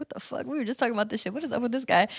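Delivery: mock put-out grumble under breath, fast, soft. Telling a story about a snail asking for directions, the speaker voices Nigel: imitating upset Nigel. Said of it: "like they're almost kind of like upset".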